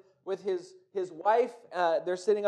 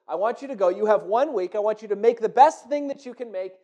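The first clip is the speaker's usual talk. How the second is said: royal command; 6 dB louder than usual. Acted. King commands the craftsmen.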